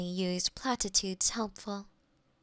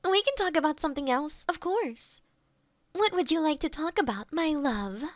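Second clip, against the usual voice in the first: eager rush; 5 semitones higher than usual. Acted. AI hastily changes subject.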